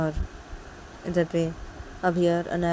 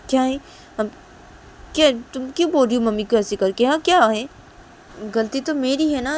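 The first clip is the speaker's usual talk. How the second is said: higher, louder heated reproach; heated arguing; 5 semitones higher, 7 dB louder than usual. Acted. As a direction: argue back hard, high and loud. Shanaya argues heatedly with Tisha.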